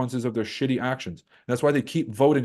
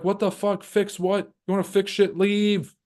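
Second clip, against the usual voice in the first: high exasperated mock voice; mock outrage; 8 semitones higher, slower than usual. Locals telling America to leave, high exasperated voice. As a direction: shoo them away, indignant. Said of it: "They're like".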